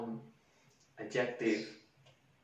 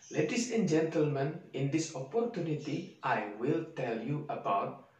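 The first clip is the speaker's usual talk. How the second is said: a speech read in a thick Indonesian accent; Indonesian-accented English speech. Shown as a demonstration. Teacher demonstrating a heavy Indonesian accent in a speech. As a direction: read it as a stiff Indonesian speaker would. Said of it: "ada yang salah nggak kira-kira".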